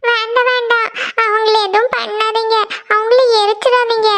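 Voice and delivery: sleep-talking plea. Acted. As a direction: beg in a troubled dream. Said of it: "இவ என்ன புலம்பிட்டு இருக்கா".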